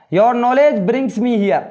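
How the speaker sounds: each word drawn out slowly; careful word-by-word classroom reading; slow model reading. Shown as a demonstration. Teacher models English sentence.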